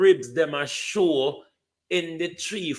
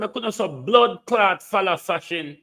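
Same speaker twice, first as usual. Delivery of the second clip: mock quote of the Prime Minister, raised and a bit louder; sneering imitation of the PM; 5 semitones higher, 5 dB louder than usual. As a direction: throw his words back at him with scorn. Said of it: "The Prime Minister said".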